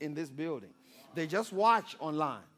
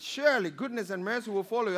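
put-on American accent; 4 semitones higher, 4 dB louder, faster than usual. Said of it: "in his accent".

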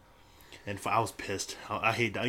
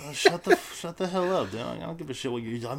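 retelling snapping at the trainee; hammed-up shut up; mock yell; 5 semitones higher than usual. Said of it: "And I was like".

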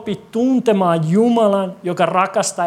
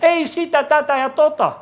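mock shouting; 5 semitones higher than usual. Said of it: "Me aina huudetaan".

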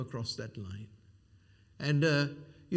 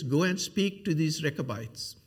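mock misquote of scripture; 6 semitones higher, 6 dB louder than usual. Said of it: "That's not what verse two says".

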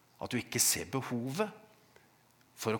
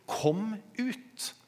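pitched high, only moderately raised call; retold call; 10 semitones higher than usual. Preacher quotes Jesus calling Lazarus out, high retold call. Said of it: "fordi han roper".

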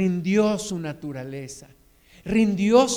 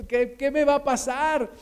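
higher, worried plea without shouting; a touch of anguish, pitched up; 4 semitones higher than usual. Acted. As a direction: voice Jacob's mounting worry, mildly acted. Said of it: "Y se angustia".

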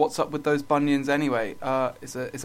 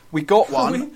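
excited reveal; 7 semitones higher, 10 dB louder, slower than usual. Acted. Announcing winning lottery ticket.

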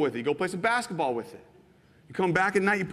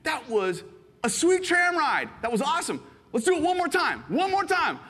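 gushing delight; 11 semitones higher than usual. Retold or imitated. Visitor begging to ride the tram again, high and gushing. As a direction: beg for one more go.

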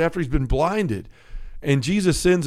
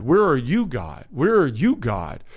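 pleading question. Acted.

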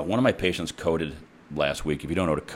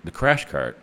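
calmly; slower than usual. Retold or imitated. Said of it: "and I said calmly".

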